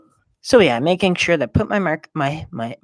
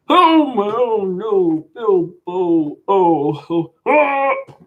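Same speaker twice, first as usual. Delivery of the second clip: high loud mock screams; epic screaming; 5 semitones higher, 4 dB louder, slower than usual. Gamer announcing epic screaming then screaming, high loud mock scream. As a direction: scream the falls with exaggeration. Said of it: "time for epic screaming".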